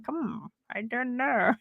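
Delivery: doubtful. Retold or imitated. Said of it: "And I'm like".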